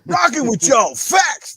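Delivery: high sung sign-off; sing-song hype sign-off; imitating Lemon. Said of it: "That's how, that's how Dragon would do it".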